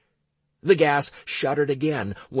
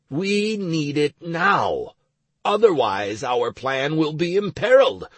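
implacable; 4 semitones higher, 4 dB louder than usual. Acted. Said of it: "I replied implacably".

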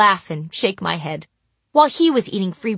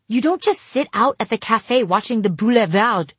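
shouting over traffic; 3 semitones higher than usual. Acted. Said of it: "I had to shout over the noisy engines".

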